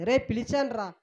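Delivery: a hurt father saying I called and you did not listen; God's voice. Acted. Preacher voicing God reproaching the people who ignored him. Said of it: "అని దేవుడు ఎన్నోసార్లు దేవుడు పిలుస్తుంటే".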